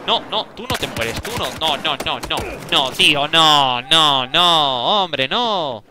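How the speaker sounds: loud rising string of no; real frustrated gamer; desperate protest. Real, not acted. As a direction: plead against dying. Dying in the game again.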